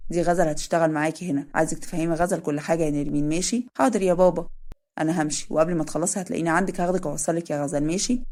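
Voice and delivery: easygoing older man, lightly voiced; lightly voiced Adham.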